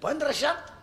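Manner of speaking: high, incredulous rising question; mock amazement. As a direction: act out an astonished bargain-hearing sister. Sister amazed at sari's price.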